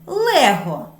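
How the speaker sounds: calling the toy. Shown as a demonstration. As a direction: call Лего out loud. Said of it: "що ми кличемо їх".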